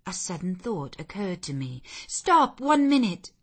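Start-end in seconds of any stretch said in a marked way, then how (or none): 2.1-3.3 louder and higher, calling him back; sharp raised call to halt; urgent cry. A narrator's reading. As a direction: stop him at the door with a sudden cry. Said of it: "I cried".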